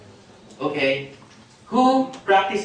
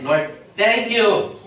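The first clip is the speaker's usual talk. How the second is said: confident thankful prayer; 4 semitones higher, 3 dB louder than usual. Shown as a demonstration. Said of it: "your prayer should be like this".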